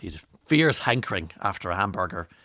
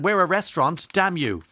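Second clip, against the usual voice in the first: mock indignant; 7 semitones higher, 5 dB louder than usual. Retold indignant High Court claim.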